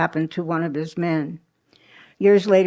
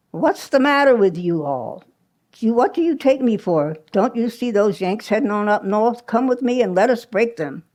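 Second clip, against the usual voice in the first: lightly put-on Southern accent, a bit higher; playing a Confederate in a Southern accent; 4 semitones higher than usual. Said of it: "In his best Southern, uh, accent".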